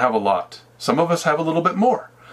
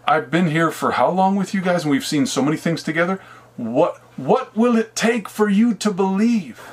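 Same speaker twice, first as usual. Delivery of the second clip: a little down; 4 semitones higher than usual. Retold or imitated. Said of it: "a little bit down at this point".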